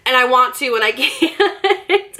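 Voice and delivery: high, drawn-out mock whimper; mock tearful. Crying daughter explaining she can't hit somebody, mock tearful. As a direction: imitate yourself cracking into tears on the last word.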